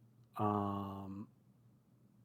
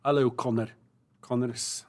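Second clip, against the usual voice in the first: put-on Scottish accent. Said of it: "I've got to do the Scottish".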